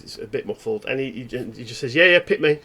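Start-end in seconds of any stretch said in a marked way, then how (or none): 1.9-2.6 loud eager call; loud and clear. Acted. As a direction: shout it out clearly. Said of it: "really loud and clear".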